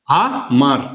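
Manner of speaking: "আ মার" with র pulled onto মা; drawn-out reading. Shown as a demonstration. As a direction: say "আ", pause, then one joined "মার". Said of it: "ময়ের সঙ্গে টানতে হবে".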